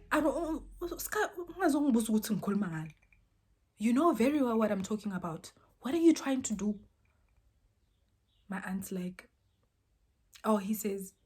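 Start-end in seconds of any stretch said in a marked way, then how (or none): 0.1-6.8 angry tirade. Retold or imitated. Aunt furious at the liar.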